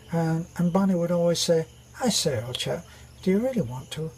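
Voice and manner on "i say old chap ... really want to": lightly imitated posh British chum; genteel mock-British gentleman's reply; a hint of posh old-chap British; posh British accent. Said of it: "a rather posh British accent".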